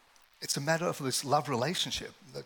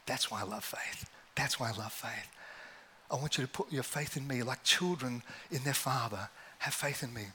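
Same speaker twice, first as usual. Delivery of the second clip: God's gentle whisper; 5 dB quieter than usual. Acted. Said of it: "And I felt like God say".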